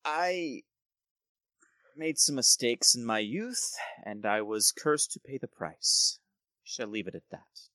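lightly voiced courteous nobleman, bargaining; a hint of an oily noble negotiating; smooth lord Gerald. Gerald explains his curse.

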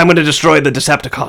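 brisk coaching of the line; feed him the line quickly; lightly voiced; the speaker prompting.

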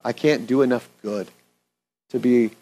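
earnest, unhurried prayer voice; pastor's prayer. Acted. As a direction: pray aloud for the congregation. Leads the closing prayer.

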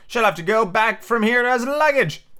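very high, slow beetle voice; the beetle speaking up in a very high, slow voice. A narrator's reading. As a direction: squeak it out slowly like a tiny beetle.

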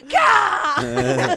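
loud short kick yell; mock battle yell. Retelling wrestler kicking intern, mock yell. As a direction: bark a fighter's war cry. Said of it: "And he just goes".

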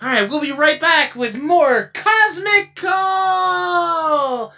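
slow, echoing shout as if falling down a well. Acted. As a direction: yell it like you're tumbling down a well. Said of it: "Sometimes I like to sound like I'm falling down a well".

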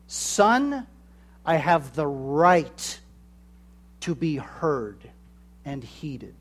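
calm firm fatherly authority, slow; steady and measured, like a father claiming his due; authoritative voice. Shown as a demonstration. Preacher shows a father's authoritative call, slow and firm. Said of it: "The authoritative voice says".

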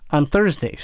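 whispered Tuesdays. Pretend. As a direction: drop to a sudden whisper. Whispered aside during plug.

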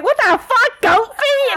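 very high, loud, baffled cry; shocked fiancée. Retold or imitated. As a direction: yelp it as a confused fiancée opening a box. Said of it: "will open up and be like".

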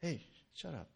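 curt dismissal without shouting; short, abrasive order to leave; brief, sharp, abrasive. Acted. Preacher voicing Jesus dismissing the demon, brief and sharp. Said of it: "brief and sharp, and it is abrasive".

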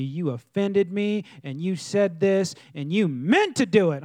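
slow, drawn-out mock indignation; acted-out aggrieved complainer; offended accusation. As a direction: accuse with heavy emphasis on each offense. Acting out offended churchgoer's complaint.

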